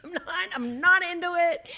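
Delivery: real laugh bubbling through the line. Real, not acted. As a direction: say it mid-laugh, amused at herself. Joking about skipping recital.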